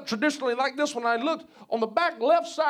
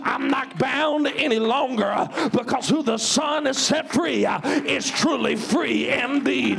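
full-force preaching. Real, not acted. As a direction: preach it hard, punching each phrase with a gasped "uh".

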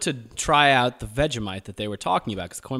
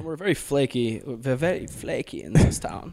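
put-on American accent. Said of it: "You did a hell of a job in that American accent".

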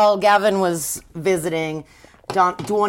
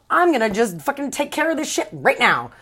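fired-up vow; 6 semitones higher than usual. Retold or imitated. Dawn voiced resolute.

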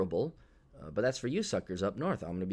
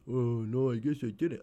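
sheepish customer; 3 semitones higher than usual. Retold or imitated. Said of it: "Did you follow the instructions".

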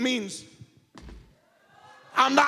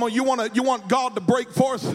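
full-force preaching. Acted. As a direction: rouse the church to praise. Quotes his advice in preaching tone.

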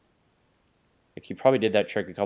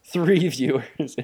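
mock slow stress; 5 semitones higher, 5 dB louder, much slower than usual. Mocking the tiny number.

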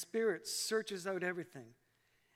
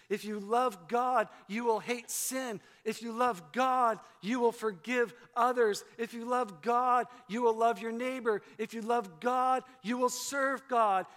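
rhythmic, a little louder call and answer; preaching refrain; 3 dB louder than usual. Acted. Pastor urging his congregation to love God, rhythmic preaching. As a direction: drive the refrain home each time.

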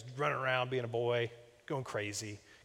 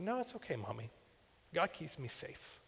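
put-on raised, light little-boy voice, gently reassuring; imitating a small child; 4 semitones higher, 7 dB quieter than usual. Young son reassures his mommy after playground teasing, a lightly voiced child. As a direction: speak it like a brave three-year-old comforting his mother.

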